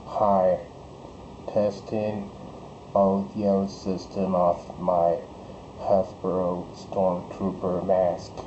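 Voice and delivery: robotic voice changer. Real, not acted. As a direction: speak through a robot voice filter. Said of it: "It sounds like a robot".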